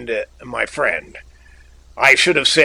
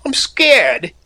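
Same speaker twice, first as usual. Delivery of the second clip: scared stammer; 10 semitones higher, 5 dB louder than usual. A narrator's reading. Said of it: "he stammered".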